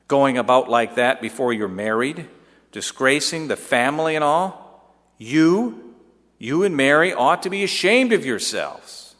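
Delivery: starts high and loud, scolding her son; a mother's voice climbing in indignation; rising anger. Acted. Mother scolding her son about Mary, rising anger. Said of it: "Your voice started to rise".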